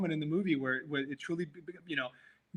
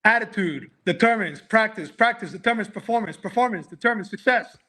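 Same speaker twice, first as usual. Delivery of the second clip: military recital; 3 semitones higher, 3 dB louder than usual. Shown as a demonstration. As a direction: recite it like a soldier. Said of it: "I said it like a military".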